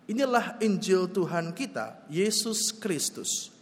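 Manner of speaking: measured, formal reading of the Gospel; scripture reading. Acted. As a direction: read it out like a lector at the pulpit.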